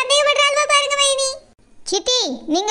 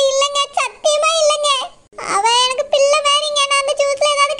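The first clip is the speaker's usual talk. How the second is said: sobbing swear of innocence; crying denial. Acted. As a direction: swear it through tears.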